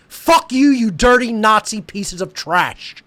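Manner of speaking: furious curse at the censors; angry outburst. Real, not acted. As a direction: bark it at them. Ranting at tech companies.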